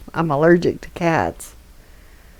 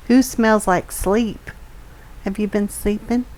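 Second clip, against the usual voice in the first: cooing to the cat; 4 semitones higher than usual. Real, not acted. Baby talk to her cat.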